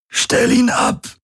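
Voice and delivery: hoch, langsam, tonlos gepresst; mühsam hervorgebracht; herausgepresst. A narrator's reading. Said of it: "brachte Galen hervor". (geflüstert gepresst)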